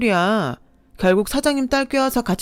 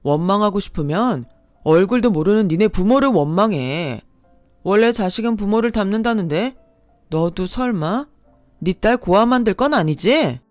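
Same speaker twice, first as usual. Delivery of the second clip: heated quarrel; 3 semitones higher, 4 dB louder than usual. Acted. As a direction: hurl insults back, rising. Quarrel with ex, insults fly.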